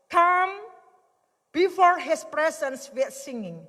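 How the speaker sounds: "come" lifted high and loud, rest slow; preached proclamation. Acted. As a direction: call it out like a summons. (berseru lantang lalu melambat)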